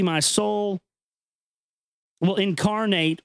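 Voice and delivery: measured, grave reading of an ancient text; solemn recitation. Acted. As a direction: read it like sacred scripture, unhurried. Reads ancient text aloud.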